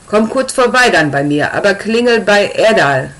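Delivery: put-on slightly broken German, Russian accent. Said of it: "fragt er in leicht gebrochenem Deutsch".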